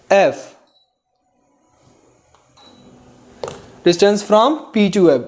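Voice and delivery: very slow dictation with long pauses. Shown as a demonstration. Teacher dictating the focal length definition, slowly. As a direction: break it into pieces for copying. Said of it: "याद रखना है".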